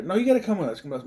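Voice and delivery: put-on woman insists the girl leave with her; insistent stranger. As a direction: press her firmly to come along.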